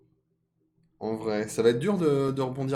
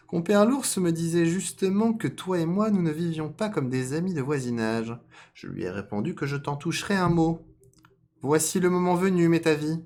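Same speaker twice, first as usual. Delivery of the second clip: raised, projected character voice; scheming fox; 8 semitones higher, 6 dB louder than usual. Acted. Fox raising a matter with rabbit, raised loud voice. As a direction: hold a high, loud, deliberate fox voice.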